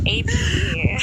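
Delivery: high, loud mocking repeat; mocking squeal. Real, not acted. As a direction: mimic the word in mockery.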